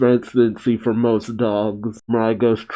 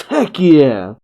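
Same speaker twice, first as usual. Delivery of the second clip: a light, cheerful yell; mock cheer; 3 semitones higher, 4 dB louder than usual. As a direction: toss out a happy little whoop. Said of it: "Kiba shouts".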